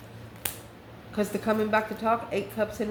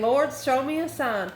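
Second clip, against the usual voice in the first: higher, drawn-out mock plea; pleading to heaven; 4 semitones higher than usual. Reader voices the masculine asking heaven for a sign, pleading. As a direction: call it slowly up to the Lord. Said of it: "He's gonna be saying".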